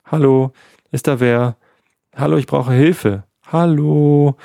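laut und höher um Hilfe rufen; lautes Rufen. Acted. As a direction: ruf laut, als ob dich keiner hört. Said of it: "Er rief laut". (laut rufend, verzweifelt nach Hilfe)

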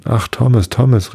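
höher und bang nach Thomas gerufen; besorgter Ruf. Acted. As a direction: ruf ihn zurück, ein wenig ängstlich. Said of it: "rief Mulligan". (mild gespielter Angstruf)

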